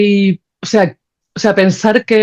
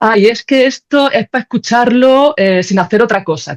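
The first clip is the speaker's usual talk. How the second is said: higher, slow, with a sneering little tune; mock the smug promoters, drawn out and higher; mocking retintín; 5 semitones higher, slower than usual. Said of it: "con un poco de rintintín". (con retintín burlón, más agudo y lento)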